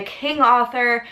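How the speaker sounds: Arthur with a New York accent, r dropped, "aw" vowel. Real, not acted. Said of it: "my little New York accent comes out".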